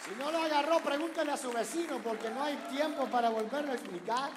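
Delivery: loud, high, fervent preaching; preaching at full force. Real, not acted. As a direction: drive it over the crowd's laughter. Preacher shouting over the laughter.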